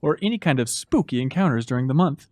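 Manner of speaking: low, hushed campfire-tale delivery; spooky letter reading. Pretend. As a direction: read it low, like a mock ghost story. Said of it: "Get ready to get a stumble spooky".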